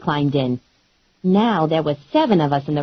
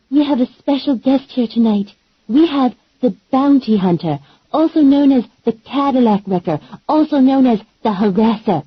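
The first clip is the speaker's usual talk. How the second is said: higher, showy emcee voice working the crowd; mud wrestling emcee; 6 semitones higher than usual. Acted. Mary Maggie hyping the crowd from the stage, showy emcee voice. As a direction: announce her like a ringside host. Emcee introduces guest on microphone.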